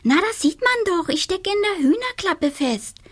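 high, put-upon witch voice; little witch voice. A narrator's reading. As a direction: sound like a scatterbrained little witch. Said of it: "entgegnete Donatella die Schusslige".

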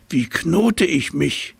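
high, slow, naive giraffe question; asking giraffe. A narrator's reading. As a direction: ask it innocently as the giraffe. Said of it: "fragte sie".

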